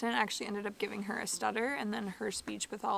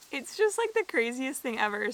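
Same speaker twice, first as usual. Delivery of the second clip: amazed squeal; 3 semitones higher, 5 dB louder than usual. Real, not acted. Laughing disbelief at Chuck Norris school.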